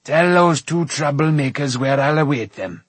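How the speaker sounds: loud, commanding king; crying out. A narrator's reading. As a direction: send the order out in a big voice. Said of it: "cried Smoit".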